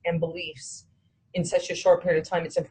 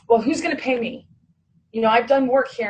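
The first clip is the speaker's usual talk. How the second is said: mock whiny lawyer; 6 semitones higher, 3 dB louder than usual. Lawyer shifting to talk of his fee.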